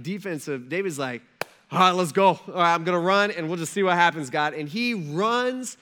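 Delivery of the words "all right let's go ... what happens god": eager charge. Retold or imitated. David eager to fight.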